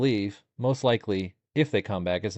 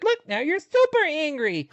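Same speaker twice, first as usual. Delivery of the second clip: put-on much higher, slow, childlike singsong; little kid voice; 4 dB louder, slower than usual. Husband teasing his angry wife in a much higher, slow little kid voice. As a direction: talk like a little kid to tease. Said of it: "like, little kid voice".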